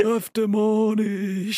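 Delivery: high, slow zombie drawl. Acted. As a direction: drag it out like a zombie. Continues the zombie bit.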